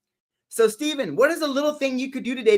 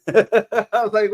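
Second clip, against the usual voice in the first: laughing; 6 dB louder, much slower than usual. Real, not acted. Laughing at viewer's joke.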